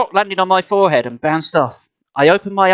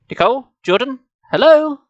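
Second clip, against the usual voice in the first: raised, sing-out call ending louder; calling for attention; 8 semitones higher, 3 dB louder than usual. A narrator's reading. Dad knocking on the kids' heads, calling. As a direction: call to them as if nobody is listening.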